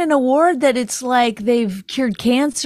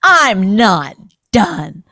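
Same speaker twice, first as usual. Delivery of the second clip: very slow, louder drawn-out refusal; mock celebrity; 5 dB louder, much slower than usual. Host imitating award winners refusing to stop, slow and loud. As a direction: drag out every word like an entitled star. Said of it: "Every second or third person was like".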